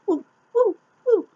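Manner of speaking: shrill falsetto whoops, hammed up; mock an overacting villain with squeals, very loud; overacting Jesse Eisenberg. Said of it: "He's always overacting".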